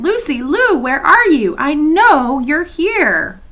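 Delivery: high, loud calling into the dark; shouting. A narrator's reading. Edmund calling for Lucy in the dark, a loud shout. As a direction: call out for her, lost and worried. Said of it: "He even shouted".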